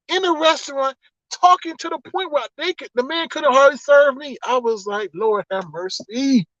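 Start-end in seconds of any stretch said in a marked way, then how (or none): 5.1-6.5 slow, drawn-out mock weariness; retold exasperation. Customer barely served at the drive-thru, mock exasperated. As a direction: stretch it out like a weary plea.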